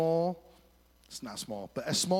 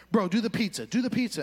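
urging coach; 4 semitones higher, 3 dB louder, faster than usual. Retold or imitated. Buddy coaching him on skis.

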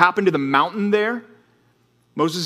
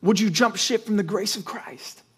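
incredulous Paul; 5 semitones higher than usual. Retold or imitated. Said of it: "he's like".

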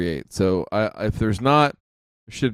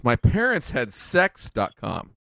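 slow, grossed-out "my parents had sex dot com"; disgusted; slower than usual. Shown as a demonstration. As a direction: drag it out with distaste. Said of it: "kind of in a disgusted voice".

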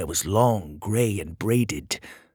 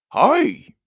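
small high voice; 9 dB louder than usual. Acted. Petey's awkward greeting.

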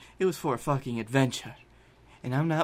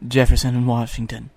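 urgent demand; 5 dB louder than usual. Acted. Blake urgently demands a ride.

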